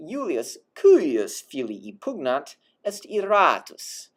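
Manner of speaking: slow, falling cuius; voice drops on cuius. Shown as a demonstration. Teacher pointing out the drop on cuius. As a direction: sink your voice on cuius. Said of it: "hear how your voice drops when you say cuius".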